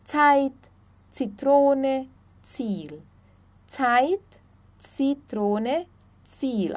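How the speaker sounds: "Zeit", "Zitrone", "Ziel" starting with TS. Shown as a demonstration. Teacher giving examples of Z, TS in "Zeit", "Zitrone", "Ziel". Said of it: "Z sempre vai ter som de T S".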